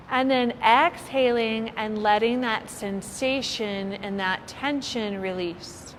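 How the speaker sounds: unhurried meditation guide with long pauses; lightly held yoga nidra voice; guided meditation. Real, not acted. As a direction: ease listeners into relaxation, phrase by phrase. Leads a guided body-scan relaxation.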